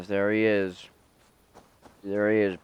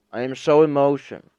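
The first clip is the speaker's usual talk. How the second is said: louder mock-grief cry on so; hammed-up wail; 6 semitones higher, 8 dB louder than usual. Streamer mourning a dead game character, loud mock wail. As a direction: belt it out as fake grief. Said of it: "I am so emotional".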